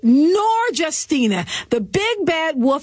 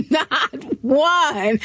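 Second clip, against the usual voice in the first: laughing. Real, not acted. Laughing repeat.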